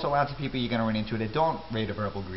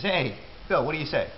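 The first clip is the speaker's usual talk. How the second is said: higher, quick what do you say; New York street greeting; 5 semitones higher than usual. Shown as a demonstration. Teacher voices a passerby greeting Bill in New York style. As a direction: toss it off in passing. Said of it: "someone sees you on the street and says".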